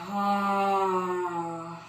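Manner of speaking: long open-mouthed exhale sigh; dramatic sigh. Shown as a demonstration. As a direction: let out a big audible sigh. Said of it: "open mouth, sigh".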